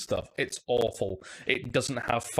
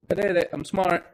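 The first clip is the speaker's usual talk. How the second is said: triumphant; 5 semitones higher, 6 dB louder than usual. Real, not acted. Celebrating success.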